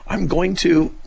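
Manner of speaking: imitated threat. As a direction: imitate an angry man's threat, then cut off. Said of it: "and he threatened me".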